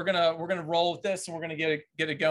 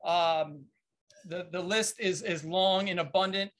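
upbeat host voice opening the show; podcast host intro. Acted. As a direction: announce the episode like a show host. Host opens the podcast episode.

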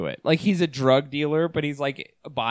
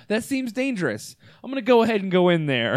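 cheerful reckless; 3 semitones higher than usual. Pretend. White people voiced, reckless.

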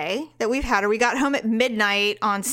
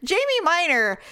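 mock show announcer. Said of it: "be like".

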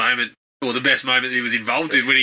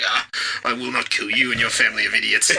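mock villain; 4 semitones lower than usual. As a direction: scoff it like a lightly played haughty villain. Quoting the disdainful villain.

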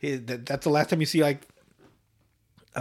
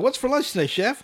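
put-on eager kid voice; 9 semitones higher than usual. Kids voiced in a story.

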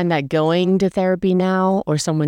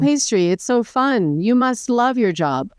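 a touch higher, mock enthusiasm; gushing outsiders; 5 semitones higher than usual. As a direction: lightly imitate cheery people gushing. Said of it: "everyone's like".

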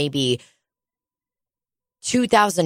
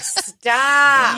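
sharp stop; 8 semitones higher than usual. Retold or imitated. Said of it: "I'm like".

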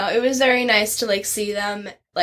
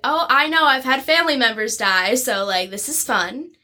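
sarcastic; 3 semitones higher than usual. Retold or imitated. Sarcastic retort to customer.

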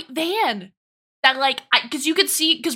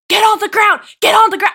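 loud, raised imitation of police; urgent repeated command, projected; shouted police order; 7 semitones higher, 9 dB louder, faster than usual. Police arresting a man outside the window, imitated shouted order.

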